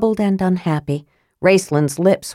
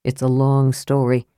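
bleak; 5 semitones lower than usual. Acted. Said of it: "said Caramon bleakly".

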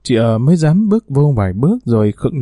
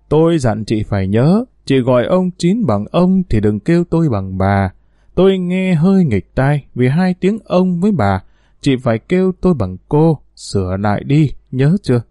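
stern. Acted. Mistress sternly correcting the maid on how to address her. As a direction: lay down the rule to the servant. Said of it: "Chín Đền nghiêm giọng".

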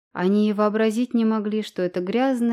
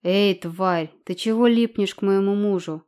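shrill woman; 3 dB louder than usual. Acted. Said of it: "визгливый женский голос".

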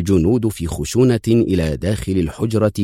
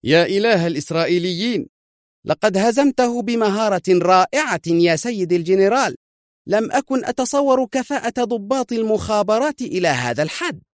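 admiring; 13 semitones higher than usual. A narrator's reading. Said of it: "في إعجاب".

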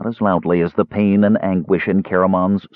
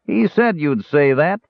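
high dwarf roar of triumph; 10 semitones higher than usual. Acted. Dwarf crows at Caramon's refusal, high triumphant roar. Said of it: "the dwarf roared".

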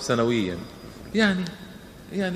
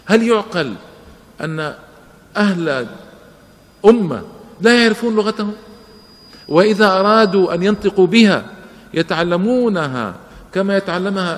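indignant outcry; 5 semitones higher, 7 dB louder than usual. Real, not acted. Indignant rhetorical question to audience.

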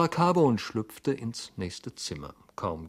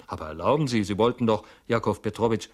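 urgent insistence; 7 dB louder, faster than usual. Acted. Hero insists, pleading.

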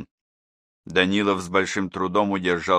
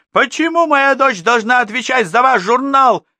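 much higher, louder heated protest; angry mother; 9 dB louder than usual. A narrator's reading. Mother argues with the teacher about her daughter, heated. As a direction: defend her daughter hotly.

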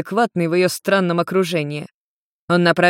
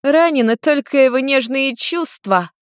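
high, slow teasing tone; girl mocking Yen's hurt feelings, lightly giggly; giggling; 7 semitones higher than usual. A narrator's reading. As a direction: tease him with a giggle. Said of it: "хихикнула Люся".

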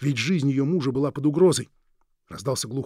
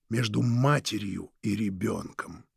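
ordinary delivery

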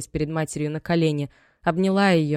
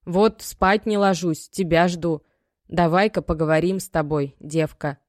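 a mother opening a hard talk, a touch louder; tired mother; 3 dB louder than usual. Acted. Мать ждёт дочь ночью. (усталая мать, медленно и сдержанно)

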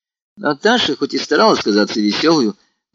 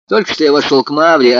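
plain reading voice

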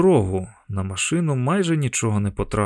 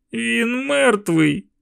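put-on high, slow, tearful child's voice; a frightened boy breaking into tears; crying boy; 11 semitones higher, much slower than usual. A narrator's reading. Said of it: "розплакався я".

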